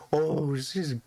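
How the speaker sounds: slow, doting old man, lightly voiced; a hint of an old man praising a pup, slow; cooing to a dog. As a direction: coo over a good dog.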